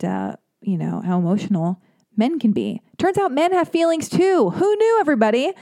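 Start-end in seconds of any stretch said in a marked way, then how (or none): 3.0-5.5 high, mock-surprised sarcasm; sarcastic aside. Real, not acted. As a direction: tease the audience with fake amazement.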